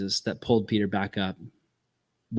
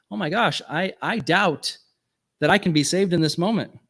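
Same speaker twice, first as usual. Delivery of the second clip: high-pitched mock dismay; doubting dismay; 6 semitones higher than usual. Peter doubting he can be saved, imitated dismay. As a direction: act out a wave of doubt.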